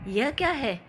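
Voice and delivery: a touch of grumpy anger, lightly voiced; angry refusal. Mother-in-law refusing the khichdi, mildly angry. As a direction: push the plate away in mild mock anger. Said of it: "सास गुस्से से".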